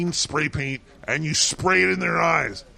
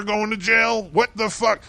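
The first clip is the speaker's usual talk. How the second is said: jumps up high and loud on jail; outraged disbelief; what the hell, higher and louder; incredulous outburst; 5 semitones higher, 3 dB louder than usual. Real, not acted. Outraged at the article.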